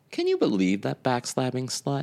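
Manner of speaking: quiet fake deadpan. Retelling a scene where Rose speaks to Dorothy, imitating Rose's deadpan. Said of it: "and then Rose just sort of deadpan".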